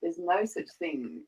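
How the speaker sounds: slow, spooky bedtime-story read; storybook reading. Acted. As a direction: read it like a sinister bedtime tale. Reads The Gruffalo aloud.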